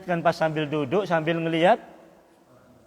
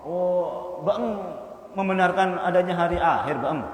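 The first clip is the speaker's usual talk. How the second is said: mocking friend; slower than usual. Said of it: "temennya itu ngomong".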